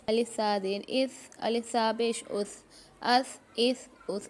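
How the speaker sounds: tongue tip lightly out on the last sound of "अस", no hiss; thin, light th closing "अस", "इस", "उस"; tha without whistling. Shown as a demonstration. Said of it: "सीटी की आवाज़ नहीं निकलनी चाहिए".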